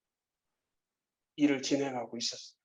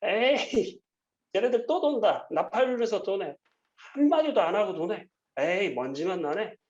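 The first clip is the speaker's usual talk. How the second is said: mocking jeer; 5 semitones higher than usual. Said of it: "막 비웃었을 거예요".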